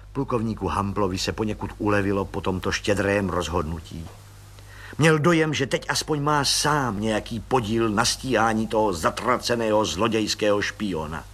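plain reading voice

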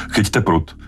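captain yelling at his crewmate; shouted order. A narrator's reading. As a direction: bark the order to grab the rod. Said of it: "křikl Quint na Brodyho".

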